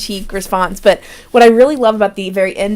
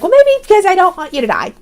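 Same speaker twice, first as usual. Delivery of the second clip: much higher, blurted out in exasperation; mock indignant outburst, higher; exasperated confession; 10 semitones higher than usual. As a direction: snap it high like she's finally admitting it. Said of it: "And she's like".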